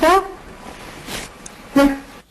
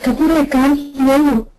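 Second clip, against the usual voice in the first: calling out. Real, not acted. Calling to a colleague who is inaudible.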